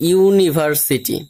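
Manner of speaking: "ইউনিভার্সিটি" slowly, ই-উ-নি-ভার-সি-টি in beats; syllable by syllable. Shown as a demonstration. Teacher giving a polysyllable example, ইউনিভার্সিটি said slowly in parts. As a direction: stretch out each syllable of "ইউনিভার্সিটি". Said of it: "ইউ একটা".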